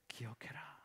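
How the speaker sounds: whispered charge. Acted. Paul charging his listeners, whispered command. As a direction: drop to a whisper.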